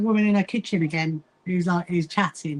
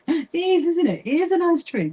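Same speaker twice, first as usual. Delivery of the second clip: laughing; 9 semitones higher than usual. Real, not acted. Laughing at chat comment.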